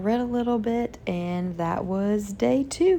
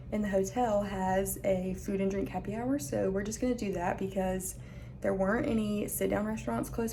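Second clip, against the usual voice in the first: quiet; 8 dB quieter than usual. Real, not acted.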